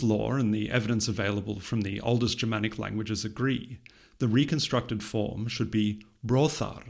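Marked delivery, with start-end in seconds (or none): 6.2-6.8 "brothar" with an unvoiced th, as in "thin"; voiceless fricative. Shown as a demonstration. Lecturer citing the reconstructed form, "brothar" with a voiceless th. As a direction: say "brothar" slowly with a voiceless th in the middle. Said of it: "with a voiceless fricative in the middle".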